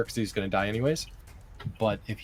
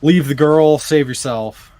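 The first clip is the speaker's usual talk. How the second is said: loud, commanding suggestion; forceful magical command; 3 semitones higher, 10 dB louder than usual. Acted. Player casting suggestion on Oz, a loud command. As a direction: press the order on him forcefully.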